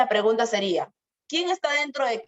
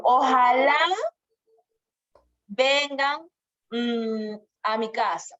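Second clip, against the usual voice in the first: demonstrated longing, starting loud and stretched; acted wishing, with a pause to think; wishful; 2 semitones higher, 3 dB louder, slower than usual. Shown as a demonstration. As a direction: voice a hopeful wish, lingering on the first word.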